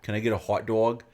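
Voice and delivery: put-on a light New York accent on a food order. Retelling a New Yorker's train hot dog order, light New York accent. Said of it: "He said it like that".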